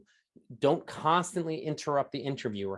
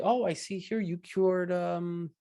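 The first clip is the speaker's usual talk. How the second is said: high-pitched, curious interviewer reading a résumé; high, drawn-out impressed question; 7 semitones higher, slower than usual. Acted. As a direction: ask with amazed interest, rising at the end. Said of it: "and they'll say".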